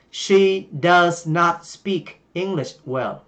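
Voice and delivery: slow, careful English model sentence. Shown as a demonstration. Teacher reading a model sentence slowly to Vietnamese learners. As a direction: spell out each English word slowly. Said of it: "chúng ta sẽ nói là".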